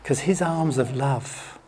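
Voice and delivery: softly whispered, slowing down; hushed and gentle; tender hush. Real, not acted. Tender reassurance to congregation.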